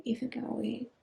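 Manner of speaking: drifting, hushed and spacey; spacey and subdued. Real, not acted. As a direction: speak as if half there, barely holding on. Spacey, dissociated, subdued state.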